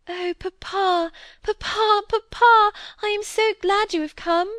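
cling to him, nearly sobbing with relief; tearful joy. A narrator's reading. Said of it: "And then she burst out crying".

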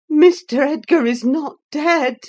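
high, loud frightened cry; gasped alarm. Acted. Nelly to Zillah, fearing for Edgar, alarmed. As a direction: burst out in sudden dread. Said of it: "I gasped".

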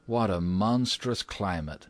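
unruffled American minister, lightly voiced; understated calm character voice. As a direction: remark on it with composure. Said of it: "said the American minister calmly".

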